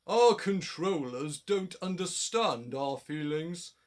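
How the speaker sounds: slow, kindly engine voice; sympathetic. A narrator's reading. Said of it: "sympathised Gordon".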